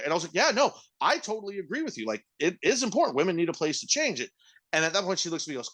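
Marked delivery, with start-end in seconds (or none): 0.3-4.3 high-pitched placating agreement; imitating overly agreeable reassurance to a customer; patronizing agreement. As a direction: agree a little too emphatically, pitched up. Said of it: "she thought I was patronizing her".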